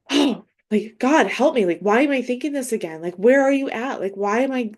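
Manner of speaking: acted plea for help, slightly rushed; stressed prayer. Believer crying out to God mid-spiral, acting stressed. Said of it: "in that stress response".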